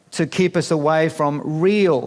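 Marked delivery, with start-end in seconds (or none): 1.6-2.1 real slowed and leaned on; stress on real. Shown as a demonstration. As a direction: land hard on the word real. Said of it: "and I stress the word real".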